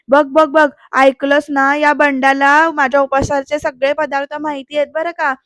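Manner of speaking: half-hearted holler, pointed and triumphant; mild acted scolding. Mother-in-law needling her daughter-in-law over recipes, mild scolding. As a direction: scold her with an I-told-you-so edge. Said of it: "नानी परत ओरडते आणि म्हणते".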